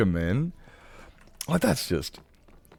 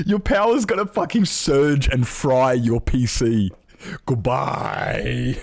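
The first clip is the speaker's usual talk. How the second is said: laughing warning; 4 semitones higher, much slower than usual. Real, not acted. Streamer warning chat their PC will fry, laughing. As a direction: spell out the disaster while laughing. Joking warning about power surge.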